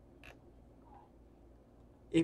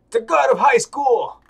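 higher, much louder, stretched announcer call; announcer hype; 7 semitones higher, 12 dB louder than usual. Acted. Announcing the tournament to the arena, hyped announcer shout. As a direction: boom it like a fight announcer. Announcing the game's title and match.

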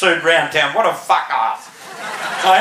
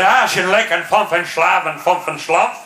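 gibberish in a mock German accent; 2 semitones lower than usual. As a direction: rattle off fake German. Mock German to Luftwaffe-suited man.

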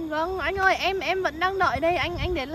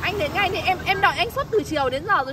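exasperated, raised pitch and volume; real exasperation; 3 semitones higher, 4 dB louder than usual. Real, not acted. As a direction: demand he come after the long wait. Fed up, demands he come now. (giọng bực bội, cao và to hơn)

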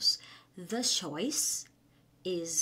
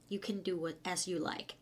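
sarcastic; much slower than usual. Shown as a demonstration. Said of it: "เขาจะพูดประชดเนี่ย".

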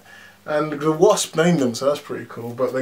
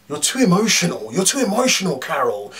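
mocking Yon-Rogg; 4 semitones higher than usual. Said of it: "Yon-Rogg or Jude Law kept saying".

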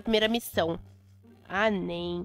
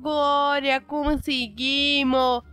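high, loud, slow victory cry; triumphant cheer; 5 semitones higher, 5 dB louder, much slower than usual. Real, not acted. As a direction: stretch the win out, higher and louder. Got into the house. (grito de vitória, alto e arrastado)

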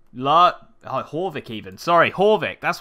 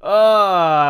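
loud high groan of dismay; 沮丧地大叫; frustrated outburst; 9 semitones higher, 15 dB louder than usual. Real, not acted. Losing more food.

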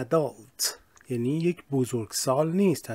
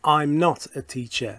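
slow contracted model; much slower than usual. Shown as a demonstration.

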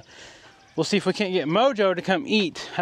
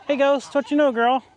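pet talk; 5 semitones higher than usual. Real, not acted. Greeting goat, pet talk.

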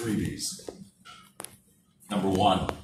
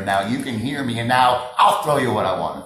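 louder, projecting again; back to full voice; 4 dB louder than usual. Shown as a demonstration. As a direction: come back up strong. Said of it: "so I'm grabbing you in there".

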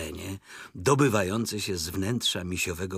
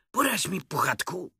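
higher-pitched careful request; cautious opening; 9 semitones higher than usual. A narrator's reading. Rabbit testing Pooh's wisdom, cautious asking. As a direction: start high, ending on a tentative rise. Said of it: "zaczął ostrożnie".

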